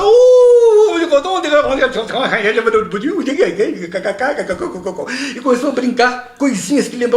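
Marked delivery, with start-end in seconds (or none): 0.0-5.4 high mock French babble; fake French gibberish. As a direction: babble nonsense that sounds French. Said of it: "o Carlinho começou a inventar".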